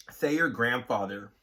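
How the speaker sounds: gasping hiccup before words. Real, not acted. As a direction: hiccups breaking the line. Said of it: "Do you have the hiccups again?".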